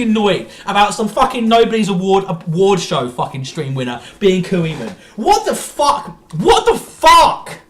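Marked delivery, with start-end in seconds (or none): 5.2-7.6 stunned disbelief. Real, not acted. Reacting to the award.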